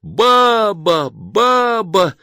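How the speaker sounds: high, loud gleeful cheer; delighted shouting. A narrator's reading. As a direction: cheer it like a triumphant crowd. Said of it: "восторженно закричали вокруг". (восторженный громкий крик)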